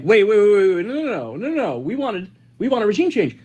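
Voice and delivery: rapid repeated waits, pitch swinging; mock hasty objection. Host voices officials wanting regime change, mock hasty protest. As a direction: imitate someone hurriedly backtracking.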